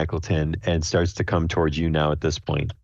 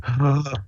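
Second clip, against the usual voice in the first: sharp shocked gasp, pitched high; a bystander gasps in shock; crowd gasp; 8 semitones higher than usual. Retold or imitated. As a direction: gasp like a startled onlooker. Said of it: "people out in the crowd are like".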